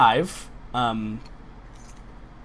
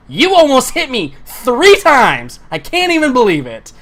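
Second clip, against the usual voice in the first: angry yell; 11 semitones higher, 8 dB louder than usual. Acted. Vi screaming at Chester in fury. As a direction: yell at him for nearly hitting her.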